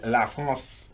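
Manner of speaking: "La France" said slowly the French way; French pronunciation. Shown as a demonstration. Host naming Paris's country to co-host, French pronunciation. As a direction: give "La France" its French vowels. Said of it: "that's how they say it in France".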